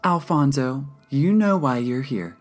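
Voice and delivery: composed counselor, high and projected; calm. A narrator's reading. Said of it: "Darla said calmly".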